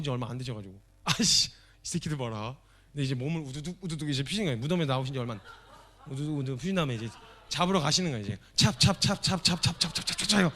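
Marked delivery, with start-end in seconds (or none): 1.0-2.6 slow, put-out grumble; comic irritation at runaways; mock annoyed. Jesus annoyed at fleeing disciples. 8.6-10.5 quick rhythmic "찹" noises; running after the disciples, as sound effects; splashing footstep sounds. Acted.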